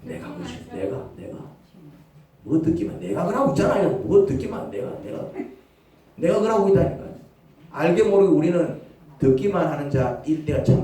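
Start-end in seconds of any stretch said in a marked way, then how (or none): 4.7-5.2 whispered confession. Real, not acted. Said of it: "confessing himself".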